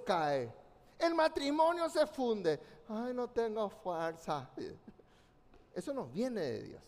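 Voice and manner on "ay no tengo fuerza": soft, slow, hammed-up sigh of weakness; mock weary whine. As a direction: mimic someone giving up, softly and slowly. Mocking a discouraged believer.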